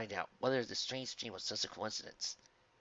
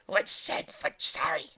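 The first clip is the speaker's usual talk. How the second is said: meek creature voice; 6 semitones higher, 8 dB louder, slower than usual. Acted. Sad dog creature.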